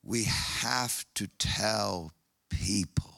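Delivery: slow, hushed whisper; urgent whisper. Real, not acted. Preacher urging the congregation to evangelize, whispered.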